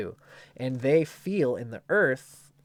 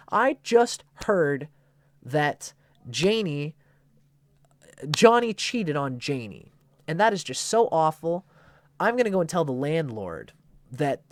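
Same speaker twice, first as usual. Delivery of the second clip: much higher, louder fake-sorry gossip; 5 semitones higher, 6 dB louder than usual. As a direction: spill the news like a thrilled gossip pretending to be sad. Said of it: "they can be bad gossips".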